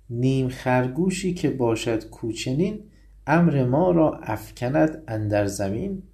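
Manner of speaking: a touch of the angry lion; poem recitation. Acted. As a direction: recite the lion's rebuke with weight. Recites lion's angry verse.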